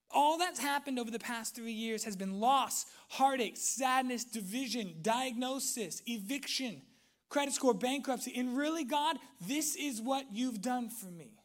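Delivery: high, insistent listing of hurts; aggrieved lament. Acted. Believer to God about years of loss, acted bitter protest. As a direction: protest to God, each loss another charge.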